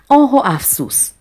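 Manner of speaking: whispered, sighing آه و افسوس; sighing regret. Shown as a demonstration. Teacher showing a sigh of regret.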